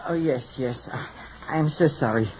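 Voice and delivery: put-on French hairdresser accent; phony French accent. Hairdresser apologizing to his client, phony French accent. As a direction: speak with a fake French accent. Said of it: "without the phony French accent".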